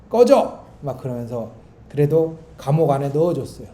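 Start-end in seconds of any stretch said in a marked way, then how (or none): 0.1-0.6 sharp shouted "get lost", high and loud; angry yell. Retold or imitated. Prisoner shouting at the cook to leave, furious yell. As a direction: bark it out to drive him away.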